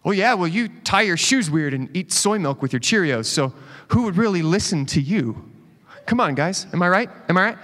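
mocking debater playing to the crowd; making fun. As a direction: jeer lightly and fish for agreement. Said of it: "start making fun of the other person".

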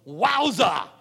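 Wowza. Retold or imitated. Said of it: "that's my paraphrase".

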